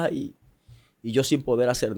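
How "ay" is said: higher-pitched "ay" of pain; retold crying moan. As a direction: imitate a mother's pained cry. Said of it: "mami lloraba y decía".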